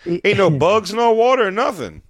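mock hype. Mock sales pitch.

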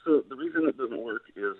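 fading in and out on a bad phone line; cutting out like a weak cordless phone; crackly cordless phone. Real, not acted. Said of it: "you're fading in and out".

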